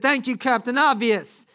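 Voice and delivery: loud, high, drawn-out sarcasm; mock sarcastic. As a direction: overdo the sarcastic thanks. Joking invented sarcastic reply from Peter.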